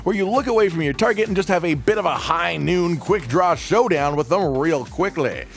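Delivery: a hint of a cowboy narrator. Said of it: "so I had to use my cowboy voice".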